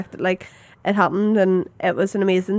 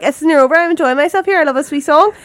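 retold protest; 6 semitones higher, 4 dB louder than usual. Re-enacts her protest at being interrupted.

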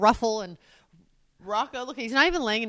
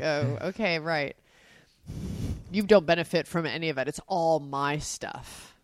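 ordinary talk

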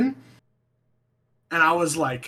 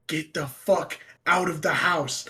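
slow, drawn-out imitated ghost warning; understated, stretched-out eerie command; whispering ghost; slower than usual. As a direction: give the ghost's order slowly. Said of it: "ghost whispered in my ear".

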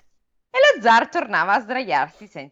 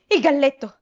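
much higher, alarmed warning; panicked squire; 10 semitones higher than usual. A narrator's reading. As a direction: cry the doom to the king. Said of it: "il ragazzo rispose". (scudiero che annuncia la rovina in allarme)

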